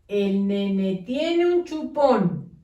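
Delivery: squashed, no pauses; run together. Shown as a demonstration. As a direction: read as one lumped string. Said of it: "¿Se entiende lo que dice?".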